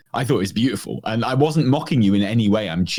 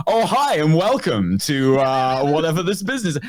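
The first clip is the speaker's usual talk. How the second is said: overeager phone voice; 3 semitones higher than usual. Retold or imitated. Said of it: "I was not like".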